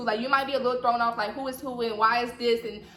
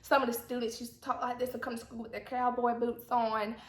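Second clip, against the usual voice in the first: Southern accent demo; 3 dB quieter than usual. Shown as a demonstration. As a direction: put on a country Southern accent. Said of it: "a Southern accent is like this".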